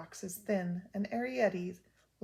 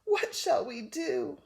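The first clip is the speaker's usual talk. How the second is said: slow, worried cry, higher and louder; heartfelt cry; 4 semitones higher, 5 dB louder, slower than usual. Acted. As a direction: cry it out in worry, slowly. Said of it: "the heartfelt cry of".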